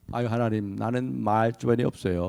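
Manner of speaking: soft whining plea. Acted. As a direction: beg off quietly, sheepish. Moses voiced pleading softly. (하나님께 조용히 변명하는 모세)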